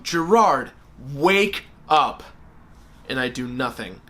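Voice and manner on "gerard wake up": mock yell of a dad. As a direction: call out firmly to wake him. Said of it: "my dad yells at the top of his lung".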